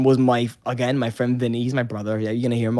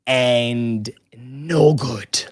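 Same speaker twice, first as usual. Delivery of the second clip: whisper; 2 semitones lower, 4 dB quieter, much slower than usual. Acted. Whispered aside.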